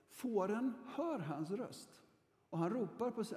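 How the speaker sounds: slow, solemn reading of the verse; slow reverent Bible reading; slow scripture reading. Shown as a demonstration. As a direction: read it slowly, weighing each word. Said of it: "Johannes evangeliet kapitel tio".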